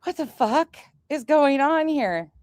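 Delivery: slow, deadpan what-the-fuck; flat unbothered demo. Shown as a demonstration. Showing friends how she talked to the caller, slow and flat. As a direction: drawl it out, totally unimpressed. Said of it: "This is how I was talking to him".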